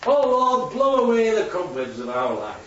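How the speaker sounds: high "Oh Lord", then sinking in pitch; same old prayer. Acted. Man repeating his weekly prayer at the meeting, intoning it. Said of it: "same old prayer".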